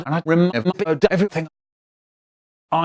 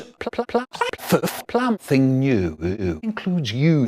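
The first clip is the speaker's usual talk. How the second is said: comic stammer; 3 semitones lower than usual. Acted. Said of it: "I'm going to do something funny".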